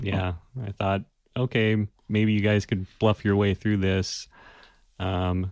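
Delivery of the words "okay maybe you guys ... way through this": ordinary talk, nothing marked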